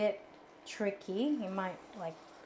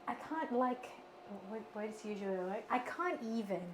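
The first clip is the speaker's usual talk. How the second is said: put-on Valley Girl accent; 6 dB quieter than usual. Shown as a demonstration. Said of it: "I can do the Valley Girl accent".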